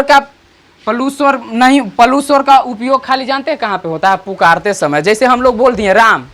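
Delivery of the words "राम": राम with the vowel held a little; drawn-out राम. Shown as a demonstration. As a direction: stretch the vowel of राम as in calling. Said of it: "राम बोल दिए तो थोड़ा सा sound आगे खींच रहा है".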